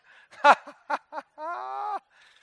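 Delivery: loud, high burst of laughter; high cackling laughter. Real, not acted. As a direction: laugh in a long run of rising ha-ha-ha. Bursts out after the shout.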